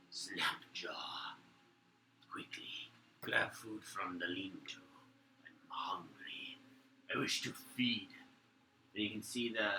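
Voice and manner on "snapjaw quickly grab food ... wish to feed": a raspy, hungry hushed whisper; hushed creature voice. Acted. A guard whispering to Snapjaw, hushed and hungry. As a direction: whisper it like a starving lizardfolk guard. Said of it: "one opens up and goes".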